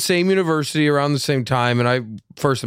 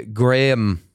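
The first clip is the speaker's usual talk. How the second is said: Northern Irish accent. Shown as a demonstration. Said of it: "the only way to say his name is in the Northern Irish accent".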